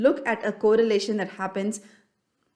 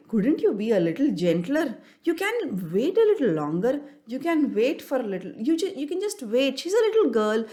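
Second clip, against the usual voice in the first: coaxing parent; 3 semitones higher than usual. Retold or imitated. Parent coaxing a child who wanted a toy, lightly pleading. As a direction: gently persuade the child to be patient.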